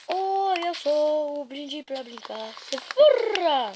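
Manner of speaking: squished cheeks. Pretend. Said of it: "ó que moca minha voz".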